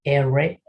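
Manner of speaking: English R, tongue not touching the palate. Shown as a demonstration. Teacher demonstrating the English R without touching the palate. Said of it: "Entonces sería".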